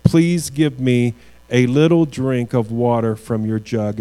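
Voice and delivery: little leaned on a bit inside the request; weight the word little, gently; stress on little. Shown as a demonstration. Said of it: "underline that word little".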